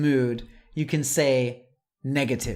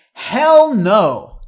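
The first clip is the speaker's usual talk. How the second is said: loud, higher shout of HELL no; emphatic hell no; 7 semitones higher, 11 dB louder than usual. Shown as a demonstration. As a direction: bark it out like a flat refusal. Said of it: "One more emphatic one".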